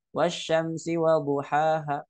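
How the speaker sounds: duhaha with the final ha cut short, no lengthening; wrong short ending. Shown as a demonstration. Teacher showing students the faulty short ending. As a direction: clip the last ha of duhaha short. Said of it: "Jadi bacanya".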